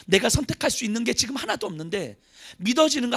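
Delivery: ordinary talk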